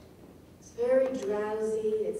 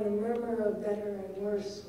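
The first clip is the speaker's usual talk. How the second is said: murmured reading. Shown as a demonstration. Teacher reading the long line, murmured. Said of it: "Beautiful for its murmuring".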